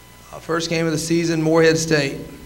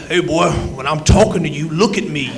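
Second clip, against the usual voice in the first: Coach Bennett's voice. Retold or imitated. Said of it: "If anybody knows Coach Bennett's voice".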